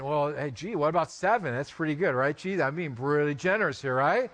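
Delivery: lightly acted self-satisfied offer; casual, chummy bargaining; Peter/character. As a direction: pitch it low, pleased with the generosity. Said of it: "Peter thought he was being generous".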